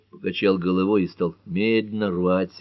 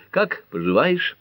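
high, drawn-out friendly question; cheery lilt at a high pitch; cheerful greeting; 10 semitones higher, slower than usual. A narrator's reading. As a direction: ask it merrily, swinging upward. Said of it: "весело поздоровалась Пэт".

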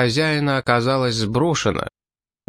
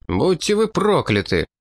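higher-pitched, restrained exclamation; exclaimed curse; 6 semitones higher than usual. A narrator's reading. Frenchman reloading his gun, exclaiming a curse. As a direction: curse them without shouting. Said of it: "воскликнул француз".

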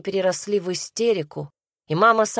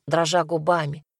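plain reading voice

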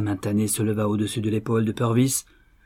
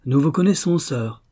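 with contempt; 4 semitones higher, 3 dB louder than usual. Acted. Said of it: "dit-il avec mépris".

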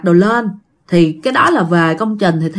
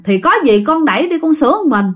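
higher-pitched stubborn retort, lightly acted; retold stubborn reply; 6 semitones higher than usual. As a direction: imitate an obstinate kid talking back. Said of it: "Bạn còn cố chấp".

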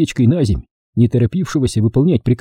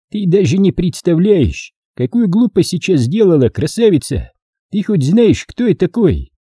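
lightly voiced menacing village boss, pitched up; угрожающий бородач; 8 semitones higher than usual. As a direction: warn her who she is dealing with, slightly theatrical. Figure of the story. (повышенный голос, с угрозой)

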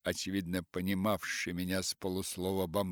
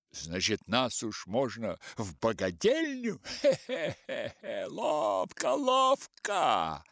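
higher, sly devilish voice; satanic glee; 7 semitones higher, 5 dB louder than usual. Acted. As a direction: relish it like a little devil. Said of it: "сатанинское лицо".

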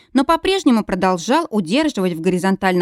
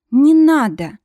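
sleepy plea, louder and higher; pleading; 6 semitones higher, 5 dB louder, slower than usual. A narrator's reading. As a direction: push it away half-asleep. Dreaming heroine pleads in sleep.

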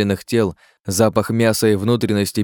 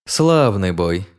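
gleeful sing-song; much slower than usual. Acted. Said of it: "С нотками злобного веселья пропел".

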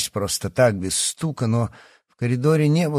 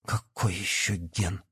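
slow, much softer horrified question; 2 semitones lower, 9 dB quieter, slower than usual. A narrator's reading. Yana horrified, asking the professor about the gene. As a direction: ask in quiet horror. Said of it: "ужаснулась Яна".

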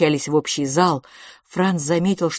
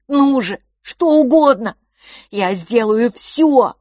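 higher and louder, building to a shout; desperate begging rising to a cry; 6 semitones higher, 7 dB louder than usual. Acted. Boy desperately begs his brother, voice breaking into a shout. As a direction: beg with everything you have.

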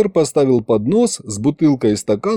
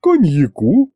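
sighing offer; 6 semitones higher, 3 dB louder, slower than usual. A narrator's reading. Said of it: "вздохнул дворецкий".

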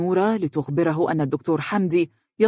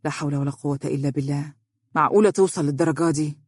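sorrowful dismay; faster than usual. Acted. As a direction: sigh it to yourself with a touch of grief. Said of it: "قائلا بأسى".

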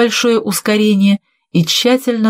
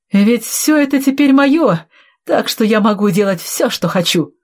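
higher-pitched gloating claim; торжествующе; 5 semitones higher than usual. Acted. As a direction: crow that it is all yours now. Villain gloats over inheritance. (торжествующе, с вызовом)

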